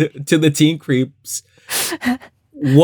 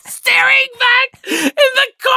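high squealing laugh through the words. Real, not acted. Describing the creepy doll shot, dissolving into laughter. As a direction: crack up mid-sentence.

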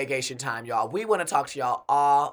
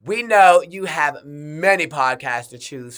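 airport announcement; 5 dB louder than usual. Pretend. Mock flight attendant intro.

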